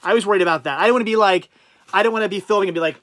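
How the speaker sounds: talking through a cloth mask; muffled through mask. Real, not acted. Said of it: "I sound slightly muffled".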